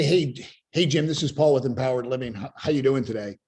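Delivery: "Jim, this is Paul" rattled off flat and fast; flat declarative. Shown as a demonstration. Sales coach demoing a canned sales call opener. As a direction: read the opener like a script. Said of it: "dead flat tonality, declarative statement".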